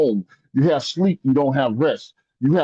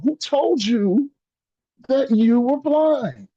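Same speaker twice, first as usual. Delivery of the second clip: voice of God; 8 semitones higher than usual. Retold or imitated. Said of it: "But then he said to me".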